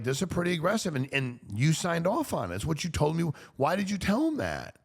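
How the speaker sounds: high-pitched, insistent reasoning; exasperated reproach. Acted. Retelling how he confronted a friend who signed off, exasperated reproach. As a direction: press a friend on their own choice. Acted reply to complaining friend.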